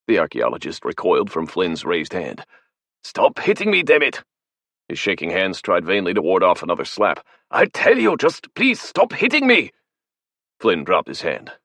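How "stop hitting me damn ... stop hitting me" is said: very high, pinched, panicky cry; terrified pleading. Acted. Archaeologist begging Flynn to stop slapping him, terrified. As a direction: beg him to stop, cowering.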